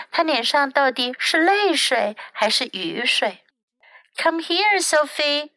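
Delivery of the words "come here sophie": a touch of gentle coaxing. A narrator's reading. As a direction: call her over kindly. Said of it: "Miss Blythe said gently".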